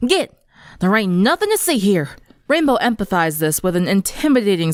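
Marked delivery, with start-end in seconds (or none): 0.1-2.1 put-on threatening southern accent. Applejack shoos mocking classmates in thick southern accent. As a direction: shoo the crowd in a country accent. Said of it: "her deep southern accent thick and threatening".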